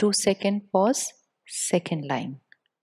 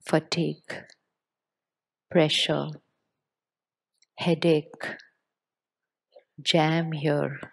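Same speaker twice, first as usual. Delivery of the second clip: slowed teaching pace; slower than usual. Shown as a demonstration. Slows speech while teaching pauses.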